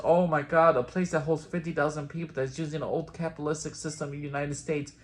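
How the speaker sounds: sarcastic over-the-top gasp, high and loud; mock shock, dripping with sarcasm; fake surprise. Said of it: "All the characters are shocked and surprised".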